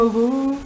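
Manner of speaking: low, soft ghost hoot; ghostly "uh". Retold or imitated. Jesus playfully posing as a ghost, ghostly hoot. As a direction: go "uh" like a half-hearted ghost. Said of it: "hacer así como que era medio fantasma".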